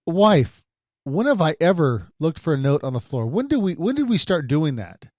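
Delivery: mock exasperation. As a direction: plead for sense in comic disbelief. Retold spat over the note.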